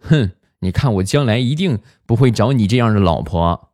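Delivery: lightly acted indignation; angry son. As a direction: imitate a sulky boy talking back to mom. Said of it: "他儿子很生气".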